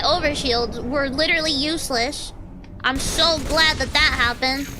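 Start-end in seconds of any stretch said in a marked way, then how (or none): 2.8-4.7 sarcastic gladness at ordinary volume; contained sarcasm. Real, not acted. Gamer sour about useless overshields, contained sarcasm.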